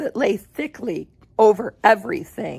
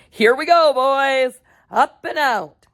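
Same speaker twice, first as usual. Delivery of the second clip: eager launch; 4 semitones higher, 4 dB louder than usual. Acted. Wonka launching the lift.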